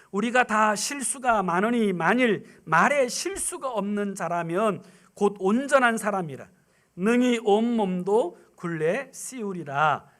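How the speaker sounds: measured pulpit reading; scripture reading. Real, not acted. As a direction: read the verse solemnly. Preacher reads James 3:2.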